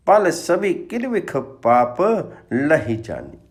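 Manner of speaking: measured, emphatic verse recitation; scripture recitation. Acted. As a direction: recite the sacred verse with firm, carrying emphasis. Recites scripture verse before explaining it. (गुरबाणी का सस्वर, ज़ोरदार पाठ)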